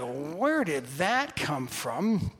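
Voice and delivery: puzzled reader. Acted. Acts out puzzled Bible reader.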